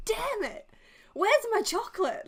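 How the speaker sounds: a grown-up denied her Easter chocolate; whiny upset. Retold or imitated.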